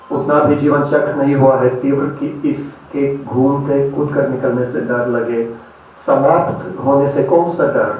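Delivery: declaimed verse, pausing between phrases; poetry recitation. Acted. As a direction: recite philosophical verse, letting each line land. Recites philosophical poems to audience.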